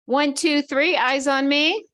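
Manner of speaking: high, loud, slow call for attention; sing-song teacher calling the class; kindergarten teacher voice. Shown as a demonstration. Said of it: "This is what they do in kindergarten".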